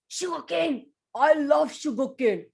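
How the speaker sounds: loud happy exclamation; excited cry. Acted. Elephant seeing the sugarcane truck, happy loud cry. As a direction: shout for the sugarcane.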